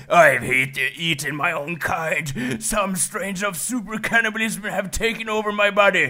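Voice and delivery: high half-sung creepy log; sing-song game log. Pretend. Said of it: "And then he's like".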